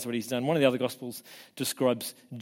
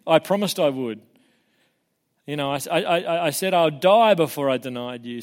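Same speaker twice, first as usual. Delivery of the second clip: raised, insistent protest; emphatic protest; 3 semitones higher, 6 dB louder than usual. Retold or imitated. Disciple insisting on his loyalty to Jesus, emphatic protest. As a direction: protest it louder, imitating a sworn promise.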